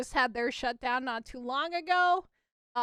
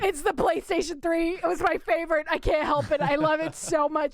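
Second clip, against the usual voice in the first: loud, higher-pitched gushing; impassioned defence; 4 semitones higher, 6 dB louder than usual. Real, not acted. Defending favorite console to teasing co-host, impassioned defence. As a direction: plead the case for a beloved console.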